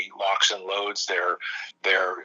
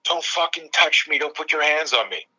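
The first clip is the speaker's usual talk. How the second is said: half-voiced angry outburst, pitched up; mild mock scream; 6 semitones higher than usual. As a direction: act out a warning scream without full volume. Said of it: "screams at him".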